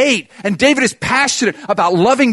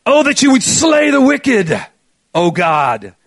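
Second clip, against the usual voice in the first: louder, higher, fierce hard-rock delivery; hard rock fervour; 5 semitones higher, 6 dB louder, slower than usual. Shown as a demonstration. Preacher reads the psalm to the church as hard rock, fierce and loud. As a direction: belt it out like a rock guitarist kicking in. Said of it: "a rock guitarist comes on".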